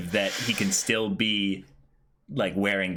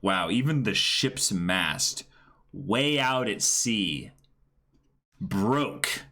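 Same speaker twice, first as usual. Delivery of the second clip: slow awe; slower than usual. Real, not acted. Slow awed commentary.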